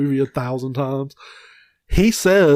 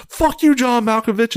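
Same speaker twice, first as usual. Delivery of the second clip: a higher mock yell from a truck; passing insult; 9 semitones higher than usual. Guy in a passing truck heckling John Malkovich, mock yell. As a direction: heckle him as you drive by. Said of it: "he says".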